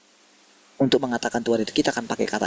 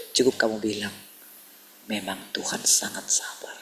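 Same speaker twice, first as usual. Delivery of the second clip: God's quiet voice; 3 semitones lower, 4 dB quieter than usual. Retold or imitated. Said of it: "Biasa aja ngomongnya".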